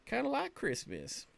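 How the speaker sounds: high, bright sing-song lift on Christmas; excited. Real, not acted. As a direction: sell it like a happy surprise. Delighted comparison to Christmas.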